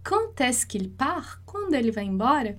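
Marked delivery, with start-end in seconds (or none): 0.0-1.4 slow, rising question tune; question intonation. Shown as a demonstration. Teacher showing students the rising question tune, slow. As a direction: let "Quand est-ce qu'il part?" climb at the end like a real question. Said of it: "esse esforço aí da entonação".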